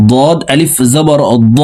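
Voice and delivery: ضاد আলিফ জবর দ with a thick, heavy emphatic d; heavy dad. Shown as a demonstration. Teacher showing the heavy ضاد sound. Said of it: "দেখুন এইভাবে পড়ব".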